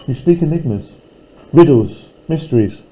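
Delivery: softly, as if sharing secrets; hushed and mysterious. Shown as a demonstration. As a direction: murmur the riddles into a hush. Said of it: "repeated line read two ways".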